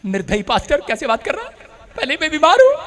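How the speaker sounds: soft, subdued, questioning protest; sick woman's complaint. Retold or imitated. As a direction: voice her hurt reproach quietly. Sick woman's weak complaint, retold. (धीमी आवाज़ में बीमार औरत की शिकायत)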